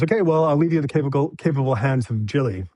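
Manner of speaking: lightly mocked executive sign-off; imitated executive. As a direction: play the exec breezily passing someone along. Imitates exec handing over.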